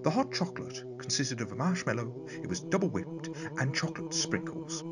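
lightly posh storyteller voice. Acted. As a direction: read it in a hint of posh. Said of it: "the posh voice".

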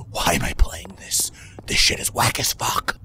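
unvoiced muttered aside; whisper. Real, not acted. Streamer hiding in the dark, whispering to himself. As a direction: whisper it so the demon can't hear.

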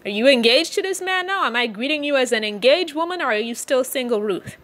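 mother-in-law eagerly quizzing Ruth; excited Naomi. Retold or imitated. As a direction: play Naomi bursting to hear the news. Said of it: "Naomi is getting excited".

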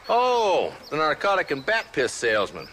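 scornful. Acted. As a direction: sneer at the con man's trade. Marshal scorns snake oil salesman.

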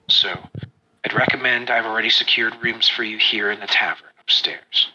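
lightly voiced spymaster, low; Albrecht. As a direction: drop the voice to brief the party discreetly. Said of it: "he looks at you and he says".

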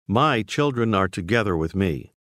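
mild emphasis on "My"; measured statement, "My" gently stressed; emphatic statement. Shown as a demonstration. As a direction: lean a little on "My" at the start. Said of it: "She says emphatically".

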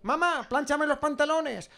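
high, drawn-out call; slow, high-pitched acted yell; calling out to mum. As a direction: holler for Mamá from another room. Acted son calling to his mother.

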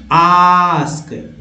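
"आस्क" held long, British ah; British accent. Shown as a demonstration. Teacher repeating the contrast for learners, British accent. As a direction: stretch "आस्क" as aahsk in British English. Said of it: "British accent में आस्क".

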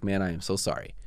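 low, quiet, retold apology; sincere apology. Engineer admitting he was rude, quietly sincere. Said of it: "The sincerity in his voice".

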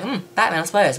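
mildly unimpressed shrug in the voice; so-so, take-it-or-leave-it; lukewarm younger self. Retold or imitated. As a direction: concede it with a noncommittal hmm. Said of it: "with the other Arkham games when I'm young".

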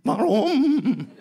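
hammed-up tearful wail, high and loud; mock a sobbing child wailing in protest; exaggerated trembling cry. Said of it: "mit so einer zittrigen Stimme".

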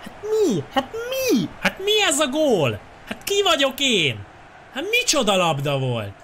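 squealing very high with joy; ecstatic shouting. Real, not acted. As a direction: shriek in disbelief at the goal. Wild celebration after goal.

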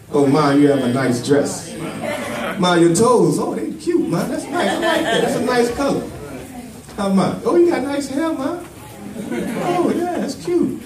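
put-on butter Mama up in a kid's voice; hammed-up flattering son; mimicking son's lip service.

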